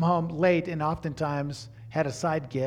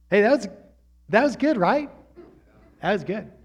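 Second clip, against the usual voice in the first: 1 proud aside; 5 semitones higher, 5 dB louder than usual. Real, not acted.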